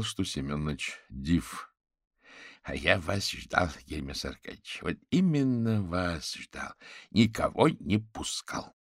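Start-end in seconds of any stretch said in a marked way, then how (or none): 2.6-8.7 put-on slow, drawn-out elderly welcome; delighted old man. Old forensic expert welcomes the awaited Averin, delighted. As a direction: greet a guest with slow, savouring delight. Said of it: "обрадовался Семёныч".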